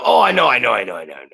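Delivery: mock brush-off, voice dropping away as it repeats; dismissive. Imitating a trainee who brushes off a critique, dismissive. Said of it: "And they go".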